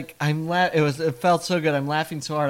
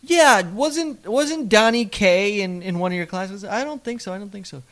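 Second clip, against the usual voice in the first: lightly voiced chatty mom; mother voice; 7 semitones higher than usual.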